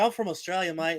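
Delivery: lightly voiced Australian mate, pitched high; soft, high mock Aussie reply; imitating Jesse. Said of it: "he's gonna be like".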